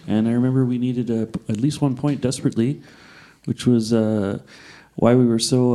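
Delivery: lightly monotone, calming athlete impression; low-key, boring hockey player with a hint of Canadian; Wayne Gretzky. Comedian recalls a big game, mildly dull and calm. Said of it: "really captured the boring quality that Wayne Gretzky has".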